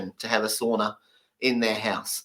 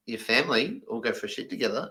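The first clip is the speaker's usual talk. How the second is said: incredulous British guy; 3 semitones lower, 8 dB quieter than usual. Pretend. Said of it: "The British guy's going".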